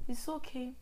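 under-breath whisper, half in Yoruba; whispering to herself to stay calm when her sister annoys her; whispered self-talk. Retold or imitated. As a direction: whisper to yourself to keep calm. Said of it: "what I've always done if she pisses me off".

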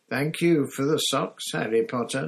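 high elf voice, calling out sadly; a sad house elf calling after his friend; lightly squeaky farewell; miserable elf call. Acted. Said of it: "Dobby called miserably".

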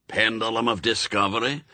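put-on brusque old witchfinder with a Scots burr; old Scots sergeant. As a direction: bark orders like a crusty sergeant. Shadwell checks kit.

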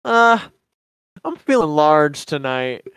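mildly smug order; buddy's cheesy line. Retold or imitated. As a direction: deliver it like a cocky pickup line. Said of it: "This is his exact words".

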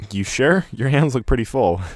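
lightly played young man, a touch amused; dry amusement. A narrator's reading. Young shopper doubting a stranger can manage, lightly amused. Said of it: "He lets out a dry chuckle".

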